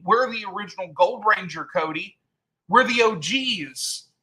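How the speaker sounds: a hint of a pleading, nagging triplet; mimicking the triplets. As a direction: lay on their nagging whine. Imitating the triplets' insistent complaint.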